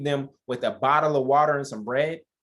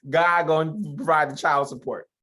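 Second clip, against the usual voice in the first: playful punchline; 2 semitones higher, 3 dB louder than usual. Shown as a demonstration. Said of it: "repeated punchline".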